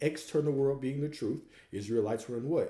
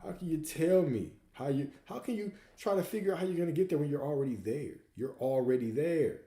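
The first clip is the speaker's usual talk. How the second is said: mock exasperated; 5 semitones higher, 3 dB louder than usual. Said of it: "And Abdullah said".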